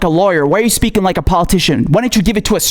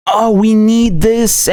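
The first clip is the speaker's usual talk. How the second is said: mocking tweet voice; 2 semitones higher, much slower than usual. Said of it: "tweeting about".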